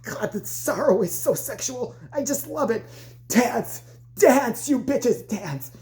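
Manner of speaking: slow relish, then high barked orders; gloating coach. Retold or imitated. Coach getting off on girls' sorrow, mock gloating. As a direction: savour it, then order them to dance.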